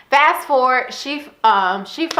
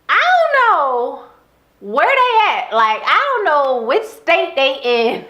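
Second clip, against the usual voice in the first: laughing exasperation; 6 semitones higher, slower than usual. Real, not acted. Laughing exasperation about lost girls.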